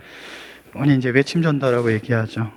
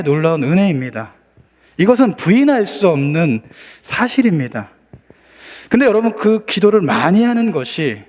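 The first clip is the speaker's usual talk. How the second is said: raised, swinging pitch on key phrases; emphatic preaching; 3 semitones higher than usual. Real, not acted. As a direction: press the congregation with searching questions. Preacher presses questions on congregation. (힘주어 묻는 설교 말투)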